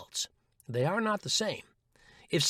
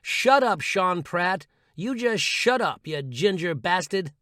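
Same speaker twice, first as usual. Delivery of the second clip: shouted together; 2 semitones higher, 5 dB louder, slower than usual. Shown as a demonstration. Leading listeners in a shout at the critic, louder. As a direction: yell it with conviction, slowly. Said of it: "say it with me".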